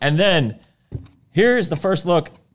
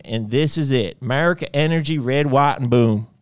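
Southern twang read. Shown as a demonstration. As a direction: read it like a proud country boy. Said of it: "You gotta read it with twang".

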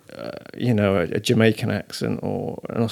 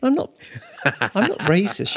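high-pitched mock indignation; defensive protest; 6 semitones higher than usual. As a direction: protest innocence in a retold squabble. Acting out his protest to wife.

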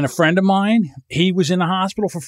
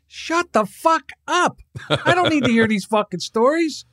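exasperated outburst; 9 semitones higher than usual. Retold or imitated. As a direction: brush off the horror stories. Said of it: "I'm like".

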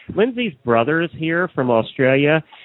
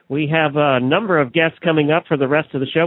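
ordinary talk

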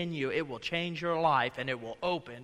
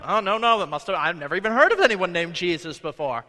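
Peter's denial; 7 dB louder than usual. Retold or imitated. Peter denying Jesus.

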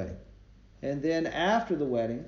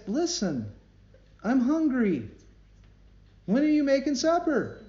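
high, louder, mock-demanding husband; 11 semitones higher, 5 dB louder than usual. Husband on the phone demanding supper, mock-indignant. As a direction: play the entitled husband calling home.

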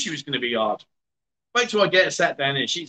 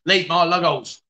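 laughing. Real, not acted. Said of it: "told one of the girls".

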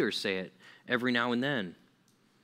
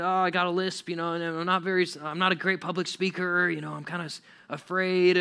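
slightly higher, hesitant mock reluctance; reluctant excuses; 5 semitones higher than usual. Moses making excuses to God, mildly hesitant. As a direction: wriggle out of it politely.

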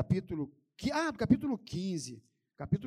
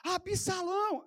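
high, slow, stretched-out call; sample rallying cry; demonstrated crowd cry; 10 semitones higher, slower than usual. Shown as a demonstration. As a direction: draw the name out like a chant. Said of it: "pede o povo para gritar assim".

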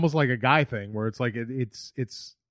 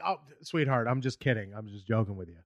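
softly, gently placating; hushed, sheepish reassurance; soft apology; 4 semitones lower, 7 dB quieter than usual. Retold or imitated. Comic to upset woman, soft placating.

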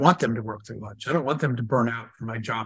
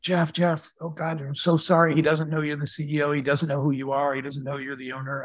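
retold panicked apology. Panicked vice presidents run out apologizing.

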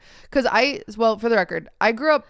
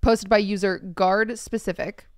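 reading aloud. Acted. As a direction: read it out with deliberate spacing. Reads post aloud.

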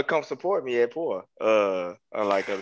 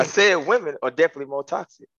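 clear, audible restatement at full voice; said with chest. Real, not acted. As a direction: repeat the answer firmly so everyone hears. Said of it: "Say it with your chest".

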